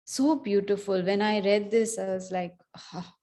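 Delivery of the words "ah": awed sigh. Retold or imitated. Recalls reaction on reading the passage.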